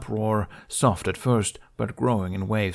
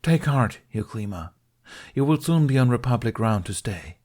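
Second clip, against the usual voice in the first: encouraging; 4 semitones higher, 4 dB louder than usual. Acted. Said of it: "an encouraging smile".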